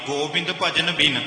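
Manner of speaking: ਗੋਬਿੰਦ ਭਜਨ ਬਿਨ as one phrase, then a clear stop; pause after phrase. Shown as a demonstration. Teacher showing where to rest, a stop after ਬਿਨ. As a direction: fall on ਬਿਨ and pause there. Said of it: "ਇੱਥੇ ਵਿਸ਼ਰਾਮ ਲਾਓ ਜੀ".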